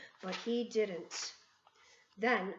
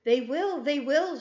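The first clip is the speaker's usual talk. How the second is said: eager shout; 5 semitones higher, 6 dB louder than usual. A narrator's reading. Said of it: "shouted, cried the audience".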